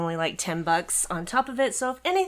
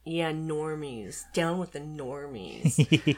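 mock rallying cry; 2 semitones lower, much slower than usual. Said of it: "I'm kidding".

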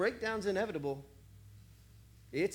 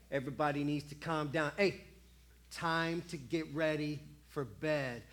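father at bedtime; 4 semitones lower than usual. Retold or imitated. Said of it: "Like when a father says".

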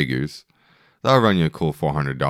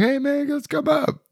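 mock bro voice. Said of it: "be like".

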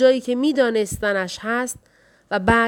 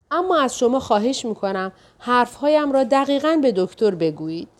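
a worried wife firing questions, pitched up; anxious wife. Acted. Wife phones the doctor's office.

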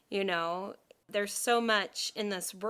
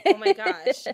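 excited; 8 semitones higher, 11 dB louder than usual. Real, not acted. Recalling podcast worries.

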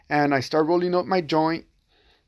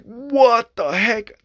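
stunned what the heck; 8 semitones higher, much slower than usual. Retold or imitated. Sudden sober shock at the offer.

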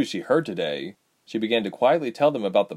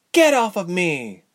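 high, loud, drawn-out protest; raised, urgent command; angry demand; 9 semitones higher, 5 dB louder than usual. A narrator's reading. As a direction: push him away with your voice. Woman fights off her attacker.

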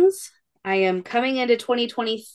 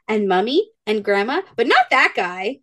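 put-on light child voice. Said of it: "She's like".

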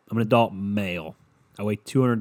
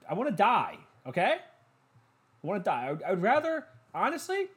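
stuffy nose; 11 semitones higher than usual. Real, not acted. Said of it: "I'm stuffy as fuck".

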